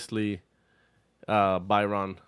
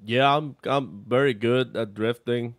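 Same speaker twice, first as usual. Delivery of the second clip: lightly voiced mock James Dean; James Dean accent; 4 dB louder than usual. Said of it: "Paco, let me hear a James Dean accent".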